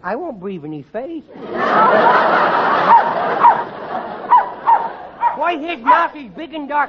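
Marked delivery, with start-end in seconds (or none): 1.3-5.3 high-pitched giggle fit; high squealing giggle. Acted. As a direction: kid shrieks with laughter. Kid squeals laughing.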